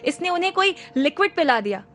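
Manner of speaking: loud public accusation; said loudly. Acted. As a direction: tell the whole corridor. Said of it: "जोर से बोला".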